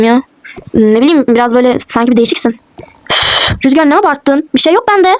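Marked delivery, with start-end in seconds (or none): 3.6-5.1 mildly annoyed, defensive brush-off; a touch of irritation in a denial; irritated. Acted. Wife brushing off husband's question, mildly irritated. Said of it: "ne kızıyorsun".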